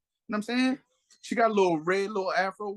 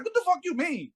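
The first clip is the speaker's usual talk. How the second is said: high-pitched imitation of a baffled woman; mock indignant woman; 11 semitones higher than usual. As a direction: voice her protest, pitched up. Voices the woman in retold quarrel.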